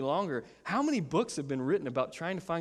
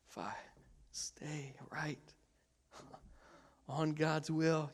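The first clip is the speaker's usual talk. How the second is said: mock tightrope walker; 8 dB quieter, slower than usual. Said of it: "you can tell I haven't been drinking".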